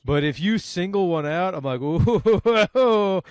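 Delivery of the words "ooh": high mock-menacing ooh; taunting ooh. Man mocking a teenager without backup, taunting ooh.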